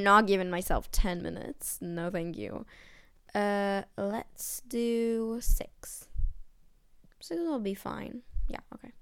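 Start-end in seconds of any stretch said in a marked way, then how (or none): 3.3-8.9 soft, breathy whisper. Real, not acted. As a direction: whisper it under your breath. Whispering while setting a timer.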